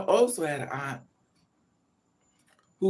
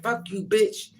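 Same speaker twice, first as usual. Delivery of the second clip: aunt cursing; 6 semitones higher, 3 dB louder, slower than usual. Retold or imitated. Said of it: "She's like".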